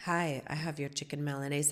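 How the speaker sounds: lightly attempted Brazilian accent, slightly low; half-hearted imitation of a Brazilian delivery man; poor Brazilian accent. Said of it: "in his Brazilian accent. I can't do it".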